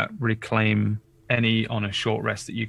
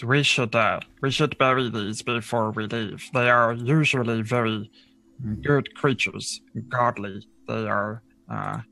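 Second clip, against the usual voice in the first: guide character. Acted. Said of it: "looks at them and says".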